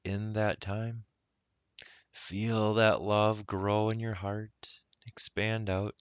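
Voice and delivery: measured meditation guidance with long pauses; guided meditation. Acted. Guide helping listeners recall love, guided meditation. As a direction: gently lead them into the feeling.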